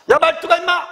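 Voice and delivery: high, loud acted call; imperious summons. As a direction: yell for the servant as a cross master. Nobleman summons his servant. (하인을 부르는 높고 큰 호통)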